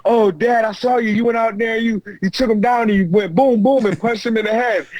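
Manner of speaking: put-on a boy's thrilled play-by-play to Dad; excited son. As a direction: imitate your son excitedly recounting the fight. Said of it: "my son goes".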